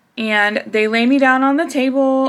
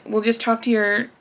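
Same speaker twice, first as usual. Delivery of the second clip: kind tech; slower than usual. Retold or imitated. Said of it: "She tells me".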